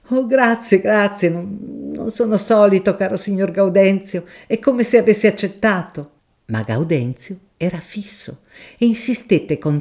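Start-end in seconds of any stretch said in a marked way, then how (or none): 0.1-6.1 higher, polite flustered scholar; a shy professor refusing a kindness; higher, polite, a touch flustered; mild professor. Acted.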